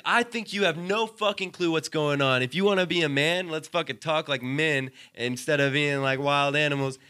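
worked-up retold argument; re-enacted heated retort. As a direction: replay yourself putting him in his place. Acted quarrel, own reply.

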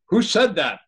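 high, loud bewildered question; jolted, asking the empty room; startled question. Retold or imitated. Startled by an inner voice, asking who spoke.

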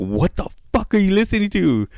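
high-pitched mock disbelief; incredulous reaction. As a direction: imitate a baffled, appalled question. Mimics Diana's baffled reaction.

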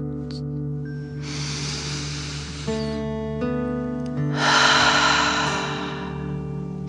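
slow breathy exhale; long dragon breath out. Shown as a demonstration. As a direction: breathe out like fire. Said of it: "pretending you are breathing fire".

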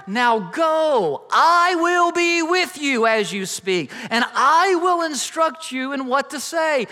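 God rebuking a pleading Moses, slow and booming. Acted. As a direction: proclaim it as the Lord, slow and loud. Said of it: "Then the Lord asked Moses".

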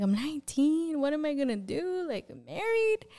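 freaking out. Retold or imitated. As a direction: act out a teenager's dismay, voice climbing. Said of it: "I'm freaking out".

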